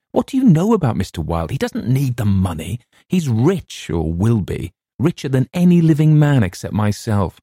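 building from high to very high and loud; manic outburst. A narrator's reading. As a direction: let the obsession run away, rising to a frantic peak. Narrator's growing manic outburst.

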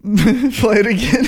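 laughing, slowed plea; after laughing hard. Real, not acted. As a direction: beg through laughter. Laughing at replayed clip.

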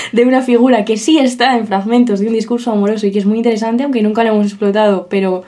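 talking through a blocked nose; stuffy nose, mouth breathing. Real, not acted. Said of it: "Puedes vocalizar".

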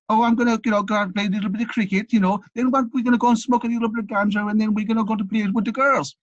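put-on high-pitched borrowed Jamaican accent. Teenager naively telling his parents his plans, imitated Jamaican accent. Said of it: "sorry about the accent".

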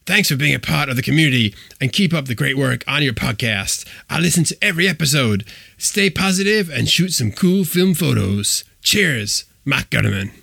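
a self-mocking bad imitation of a friend; Mike Gutterman impression. Signing off the host's letter to listeners in a put-on voice. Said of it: "That was the world's worst Mike Gutterman impression".

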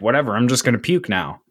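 quick, low, nonchalant retelling; unbothered. Retold or imitated. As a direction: toss it off like an untroubled kid. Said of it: "not even disturbed".

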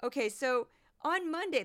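put-on light leftover Midwestern accent; goofy Midwestern accent. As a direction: start the story still in the Midwestern accent. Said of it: "that's my, my goofy voice".

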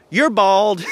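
put-on high-pitched kid's taunt; imitating teasing child. Five-year-old niece teasing her uncle, imitated high taunting voice.

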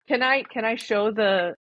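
cutting out over a bad connection; choppy, dropping audio; radio breaking up. Real, not acted. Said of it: "Tracy, we can't hear you".

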